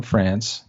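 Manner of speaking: "France" said as the French supposedly say it; mock French pronunciation. Shown as a demonstration. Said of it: "make sure you say it that way".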